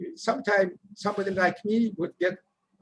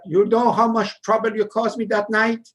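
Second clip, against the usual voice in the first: loud, raised scolding boss voice; angry manager cursing; 3 semitones higher, 4 dB louder than usual. Retold or imitated. Manager cursing out the dishwasher, loud angry scolding. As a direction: chew him out like a furious boss. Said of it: "start to chase me and curse me".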